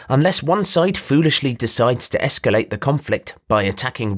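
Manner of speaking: a showy trader pinching his voice through the nose; nasally voice. Acted.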